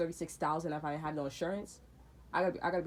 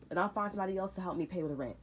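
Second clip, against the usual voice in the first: angry shout; 3 dB louder than usual. Retold or imitated. Retold yelling at her.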